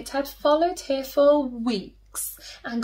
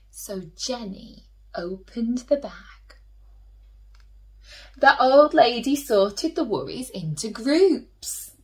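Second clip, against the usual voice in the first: put-on storytelling to children. A narrator's reading. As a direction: tell it like a bedtime story for little ones.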